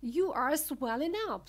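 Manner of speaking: high, loud alarmed cry; scream. A narrator's reading. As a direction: scream it in storybook horror. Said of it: "screamed Missus Beauregard again".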